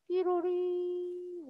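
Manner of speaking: long, soft held "삐로리"; sustained vocal jingle; imitated sound effect. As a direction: draw the little effect out softly and slowly. Imitates a sound within the story.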